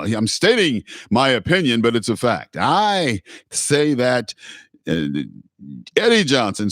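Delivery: mock-assertive political commentator, opinion pushed as fact; mock pundit. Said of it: "that's the way he talks".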